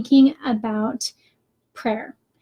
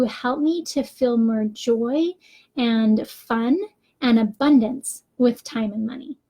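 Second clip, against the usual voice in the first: slow, hopeful "Help me to feel more joy"; positive reframed prayer. Shown as a demonstration. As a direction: say "joy" and "fun" like a gift you expect. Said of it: "and I changed it to".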